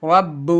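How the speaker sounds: رب with a small echoing jolt on the closing b; qalqala bounce. Shown as a demonstration. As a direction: bounce the ب at the end of رب. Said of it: "وہاں پہ جھٹکا ہوتا ہے، قلقلہ".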